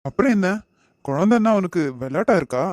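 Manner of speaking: sharp scolding. Acted. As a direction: scold her for taking it lightly. Uncle scolds her over baby. (உயர்ந்த குரலில் கண்டிப்பு)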